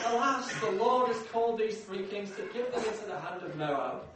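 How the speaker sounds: loud, mock-doleful lament; gloomy pessimist. Preacher voicing a gloomy king blaming the Lord, mock lament. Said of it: "Jehoram's a bit of a Private Fraser".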